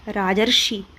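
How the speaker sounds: राजर्षि with a clear अर sound; say the word. Shown as a demonstration. Teacher says राजर्षि for students to repeat. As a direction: stress the अर in राजर्षि, रा-जर्-षि. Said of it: "इसको बोल के देखिए".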